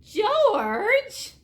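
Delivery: high, loud, stretched-out name; exasperated mother. Acted. Mother has really had it with George, exasperated cry.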